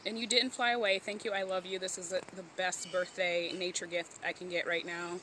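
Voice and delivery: trembling, thrilled voice; shaking with excitement. Real, not acted. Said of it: "Sorry, I'm shaking".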